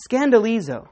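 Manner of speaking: Scandalizo said as skan-da-LEE-zo, stress on LEE; Greek pronunciation. Shown as a demonstration. Pastor showing the congregation the Greek word Scandalizo, clearly pronounced. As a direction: sound out Scandalizo syllable by syllable. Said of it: "Listen to this Greek word".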